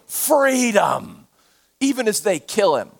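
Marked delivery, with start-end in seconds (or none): 0.1-1.3 just recall the cry lightly; understated echo of the shout; quoted yell, held back. Retold or imitated. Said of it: "They can't stop him from yelling".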